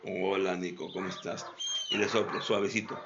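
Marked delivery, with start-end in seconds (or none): 0.0-1.4 low, slow, soft greeting. Shown as a demonstration. Right way of greeting the dog, slow and soft. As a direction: draw it out gently. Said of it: "Sino lenta".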